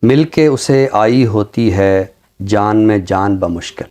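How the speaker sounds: slow, measured ghazal recital with long pauses; poem recitation. Acted. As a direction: savour each line of the couplet, unhurried. (धीमी, ठहरी हुई ग़ज़ल की अदायगी)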